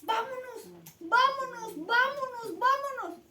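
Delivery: loud, high shout of come on; an eager, rallying call to go. Acted. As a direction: yell it to pull your brother along. Brothers spiralling, pulling each other.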